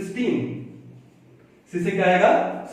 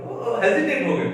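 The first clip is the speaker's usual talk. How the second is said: normal talking voice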